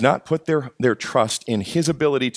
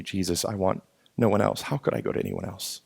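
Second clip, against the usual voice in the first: hushed devotion; 2 semitones lower, 6 dB quieter than usual. Retold or imitated. Sheep answering Jesus devotedly.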